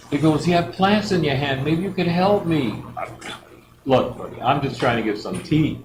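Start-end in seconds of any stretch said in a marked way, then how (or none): 0.5-2.8 higher, hopeful plea; pleading stranger. Retold or imitated. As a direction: ask like a sick man grasping at hope.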